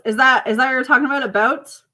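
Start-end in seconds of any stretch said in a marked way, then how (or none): 1.2-1.8 imitating Canadian accent. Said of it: "Are you making fun of my Canadian accent?".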